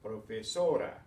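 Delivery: "profesora" with a loud, stressed "so"; stress on next-to-last syllable. Shown as a demonstration. Teacher models stress for students, "profesora" stressed on "so". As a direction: punch the "so" in "profesora". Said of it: "stressed on the next to the last syllable".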